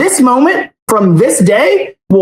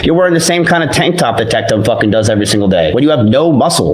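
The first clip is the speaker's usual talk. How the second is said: angry rant; 9 semitones lower, faster than usual. Acted. Clip of rant, deep fast voice.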